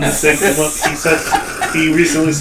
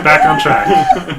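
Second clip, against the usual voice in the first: high mock command; 4 dB louder, slower than usual. Real, not acted.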